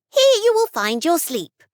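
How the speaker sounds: high, airy little fairy voice. Acted. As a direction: speak as a tiny magical fairy. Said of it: "said the fairy".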